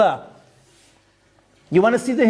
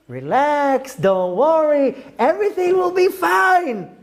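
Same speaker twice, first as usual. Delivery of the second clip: singsong higher, dismissive parody of soothing people; mock reassurance; 5 semitones higher, slower than usual. Rabbi mocking people who say relax, singsong mock calm. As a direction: mimic the naive comforters, sweetly and mockingly. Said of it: "people are saying".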